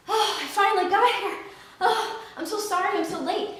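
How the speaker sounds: fake-sorry rabbit chuckling through the excuse; sheepish rabbit.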